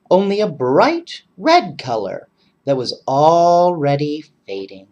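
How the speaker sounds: lively read-aloud voice; story narration. A narrator's reading. Reading a second winter story to children, lively narration. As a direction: read it warmly to the kids.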